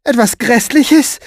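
high, loud, slow rising question; alarmed, stretched-out query; shocked echo. Acted. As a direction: repeat it in horrified disbelief. She echoes his words as question.

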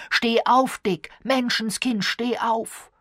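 loud, high, urgent order; calling out. A narrator's reading. Elliot urges the fallen man up, urgent shout. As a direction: shout at him to get moving. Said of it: "rief er".

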